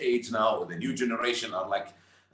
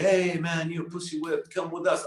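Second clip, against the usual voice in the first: lightly voiced pushy friend, a bit higher; goading buddy; 4 semitones higher than usual. Friends ribbing a newlywed to come out, teasing. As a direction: imitate a mate egging him on.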